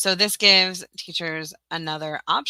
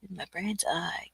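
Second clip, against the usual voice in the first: whisper; 6 dB quieter than usual. Real, not acted. Repeating herself under her breath.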